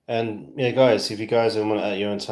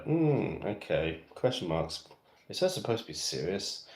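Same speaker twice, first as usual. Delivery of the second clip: British bafflement; 4 dB quieter than usual. Acted. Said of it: "here in the U K, they're like".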